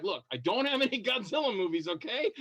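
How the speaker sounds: mock exasperation. Actor to the Godzilla fan, mock fed-up answer. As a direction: play it as exasperated but amused. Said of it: "And I'm like".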